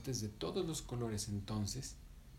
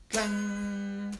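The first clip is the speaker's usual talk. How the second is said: clang; 9 semitones higher, 4 dB louder than usual. Shown as a demonstration. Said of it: "así".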